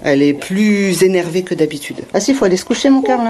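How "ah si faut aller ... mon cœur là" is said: higher-pitched parental insistence; tender but insistent bedtime plea. Real, not acted. Mother insisting toddler go to bed.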